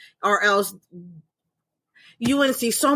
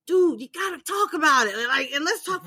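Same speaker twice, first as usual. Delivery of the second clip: higher, pushy pep talk; eager mom to son; 5 semitones higher than usual. Retold or imitated. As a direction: urge him on, half laughing. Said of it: "I'm like".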